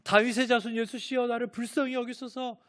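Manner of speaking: high, urgent imitated shout for mercy. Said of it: "더 크게 소리 지른다고 합니다".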